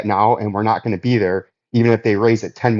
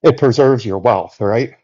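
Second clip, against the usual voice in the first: out of breath. Real, not acted. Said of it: "As I catch my breath".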